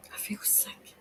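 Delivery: soft sick whisper; queasy hushed whisper. Real, not acted. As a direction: breathe it out as nausea hits.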